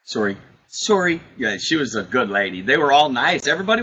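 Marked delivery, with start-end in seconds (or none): 0.0-0.4 Canadian sorry. Retold or imitated. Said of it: "Did she say sorry?". 0.7-1.2 Canadian sorry. Retold or imitated. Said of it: "Did she say sorry?".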